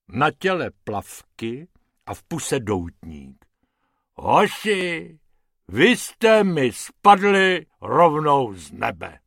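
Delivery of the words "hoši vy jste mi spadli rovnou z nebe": slow, lightly voiced hippo; a hint of a hearty hippo showman; hippo Hubert, pleased. Hippo greeting the rabbits fallen from the sky, pleased.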